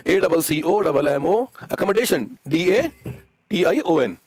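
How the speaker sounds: slow letter-by-letter dictation; spelling out. Real, not acted. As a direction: spell it slowly, stretching the last letter. Spells word while writing. (अक्षर-अक्षर धीरे बोलकर लिखवाना)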